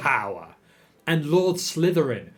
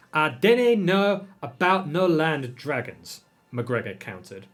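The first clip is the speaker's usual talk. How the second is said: lightly Scots, insistent and raised; hint of Scottish mayor; 4 semitones higher, 3 dB louder, slower than usual. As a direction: argue it as a stubborn Scottish uncle. McGregor argues in dialect.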